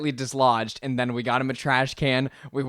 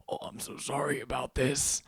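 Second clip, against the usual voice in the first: whispered apology; 12 dB quieter than usual. Retold or imitated. Choking man apologizes, retold.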